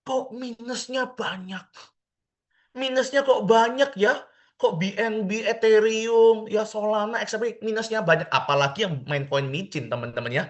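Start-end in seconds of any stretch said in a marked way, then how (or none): 0.0-8.3 whiny complaining investor. Retold or imitated. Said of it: "Oh, kalimatnya apa?".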